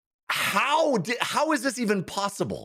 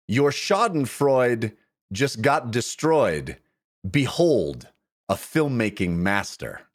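limerick; 4 semitones lower than usual. Pretend. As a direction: deliver a mock-grand limerick. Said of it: "limerick number two".

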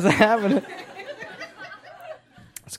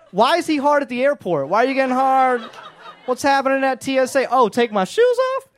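higher, laughing airport-agent voice; mock TSA agent, amused; 4 semitones higher than usual. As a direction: play a baffled, giggling security agent.

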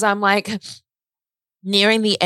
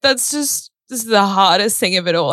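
higher, upset voice welling up; real grief; 3 semitones higher than usual. Real, not acted. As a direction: let real hurt lift the voice. Grieving brother's discovery of dad.

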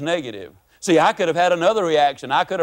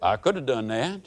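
slow deadpan punchline; 8 semitones lower, slower than usual. Real, not acted. To the audience after the rant, a slow deadpan. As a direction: let the last words hang slowly. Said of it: "punchline repeated after rant".

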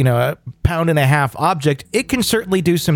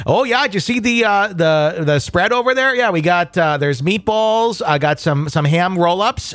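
lightly voiced Wisconsin mom showing off the spread; Wisconsin accent; 2 semitones higher than usual. Wisconsin host invites friends to the party, light Wisconsin accent. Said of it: "coming from a Wisconsin accent".

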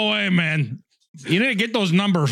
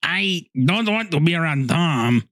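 texting voice; slower than usual. Retold or imitated. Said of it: "Texting voice".

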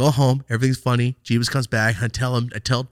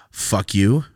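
angry retort; 6 dB louder than usual. Retold or imitated. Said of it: "But now I'm mad".

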